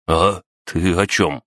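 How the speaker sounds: stammering through chattering teeth; shivering, teeth clacking, barely getting words out. Acted. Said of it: "стуча зубами, кое-как проговорил Кин".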